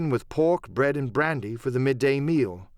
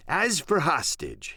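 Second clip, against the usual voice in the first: pirate voice; 4 semitones higher, slower than usual. Acted. Silver continues speaking.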